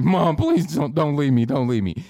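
hammed-up plea to mom; mock drunk pleading. Drunk son begging mom not to leave, mock whiny.

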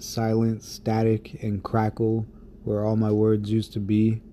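spoken-word poem, unhurried; poem recitation. Acted. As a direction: let each image land with pauses. Reads his poem aloud.

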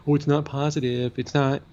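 high, mocking complaint; mocking whiny voice. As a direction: whine it like a prissy critic. Mocking critics of the song.

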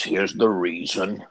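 imitated Cockney preacher; Eddie's Cockney accent. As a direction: give the explanation in a put-on Cockney accent. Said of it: "he had a Cockney accent".

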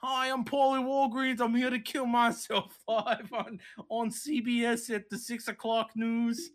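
mock commercial greeting in a bad Australian-Boston accent; muddled Australian-Boston accent. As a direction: announce it like a pitchman with a botched Australian accent. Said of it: "He just fucking kills himself in a commercial".

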